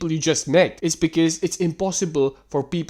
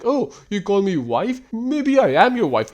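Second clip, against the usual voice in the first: higher-pitched sarcastic imitation; mock smitten woman; 4 semitones higher than usual. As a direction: play her imagined delight, mockingly. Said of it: "she's gonna be like".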